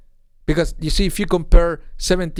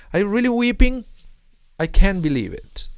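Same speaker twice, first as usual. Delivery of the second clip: raised, incredulous reproach as God; God in disbelief; 6 semitones higher than usual. Retold or imitated. God reproaching the Jewish people for weeping, incredulous reproach. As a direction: voice God's disbelief, starting high. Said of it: "God is reminding the Jewish people".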